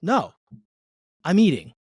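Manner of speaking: mock impatient father at breakfast; retold frustration at the kids; frustrated dad. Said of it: "And I'll be like".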